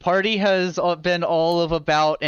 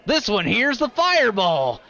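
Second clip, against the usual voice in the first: higher, eager show-off; mild proud boast; 6 semitones higher than usual. Acted. Kaltog to the party showing a vial, a mild proud brag. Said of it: "very proudly".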